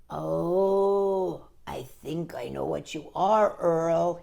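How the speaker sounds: a tender hushed whisper; whispered realization. Acted. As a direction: whisper gently as it dawns. Buddy tender discovery.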